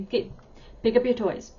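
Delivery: abrupt command. Shown as a demonstration. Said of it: "It kinda sounds abrupt".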